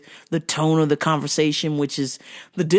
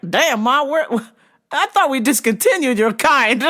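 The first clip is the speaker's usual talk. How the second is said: sassy retort; 9 semitones higher, 3 dB louder than usual. Retold or imitated. Mocking a customer in retold story.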